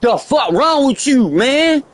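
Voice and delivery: high-pitched imitation of his mother scolding; mom scolding. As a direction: play his mama fussing at him from the car. It's my motherfucking mama.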